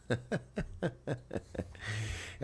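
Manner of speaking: short high-pitched giggle. Real, not acted. Amused at a mustache.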